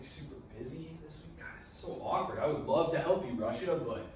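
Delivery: mock-apologetic flaky friend, half-whispered; awkward excuse. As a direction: dodge the favor with fake regret. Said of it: "And Austria's like".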